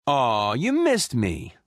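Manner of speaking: slow, drawn-out "aw", playfully touched; teasing coo. Acted. Star-Lord to someone back from away, teasing coo.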